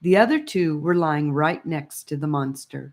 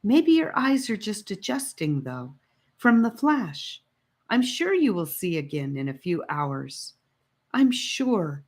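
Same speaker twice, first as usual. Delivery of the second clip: lightly voiced girl, soothing and hopeful; gentle reassurance; 4 semitones higher than usual. Annika comforting Charlie.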